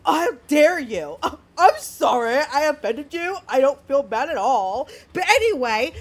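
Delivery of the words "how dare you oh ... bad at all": surfer bro voice. Retold or imitated. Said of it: "Okay, surfer bro".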